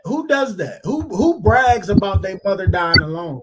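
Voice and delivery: incredulous. Real, not acted. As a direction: throw it out in real disbelief. Outraged at the bragging.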